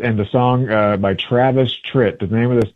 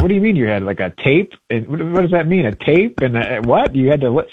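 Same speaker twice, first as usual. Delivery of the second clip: higher-pitched, incredulous mock questions; imitated bafflement; 4 semitones higher than usual. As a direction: play a youngster puzzled by old technology. Voices baffled youngster about answering machines.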